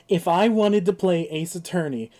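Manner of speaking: a fairly loud, exasperated rant; retold rant. Streamer retelling a rant at the game, exasperated. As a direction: vent at the game, holding up the cartridge.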